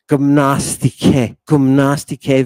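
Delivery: "Gymnastike" slow, with short "gum" opening; short upsilon. Shown as a demonstration. Teacher contrasting vowel lengths, slow Greek "Gymnastike" with short first vowel. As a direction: sound out "Gymnastike" as "goom-NAS-ti-kay". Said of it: "The vowels have different lengths".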